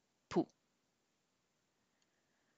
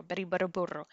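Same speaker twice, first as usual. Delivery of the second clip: quietly repeating "Betty Butter Burro" once more; soft drill; 8 dB quieter, much faster than usual. Shown as a demonstration. Teacher softly repeating the drill, a bit quicker. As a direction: say it softly, tongue ready to roll. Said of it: "Say it faster and faster".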